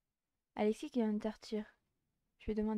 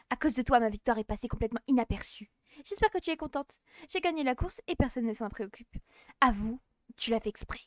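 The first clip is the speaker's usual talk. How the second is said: annoyed rival; 3 dB louder than usual. Acted. Rival blames her for the loss.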